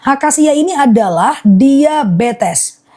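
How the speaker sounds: slow and deliberate, stretching the words; slow, focused repeat. Real, not acted. Honey seller restarting the acacia list for focus, slowly. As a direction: spell it out slowly for listeners. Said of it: "Nah, aku ulang akasia fokus ya".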